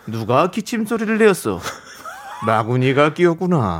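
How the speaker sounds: commanding king voice, a touch laughing; lightly voiced tyrant king; Gungye impression. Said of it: "궁예".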